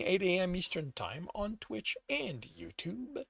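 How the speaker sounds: hushed quick aside; whispering. Real, not acted. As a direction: drop to a whisper for the plug. Quick schedule plug at low volume.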